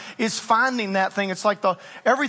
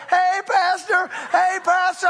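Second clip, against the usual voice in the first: higher, cheery greeting from passers-by; imitating churchgoers; 8 semitones higher than usual. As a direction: call out brightly like friendly parishioners. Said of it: "Everybody was like".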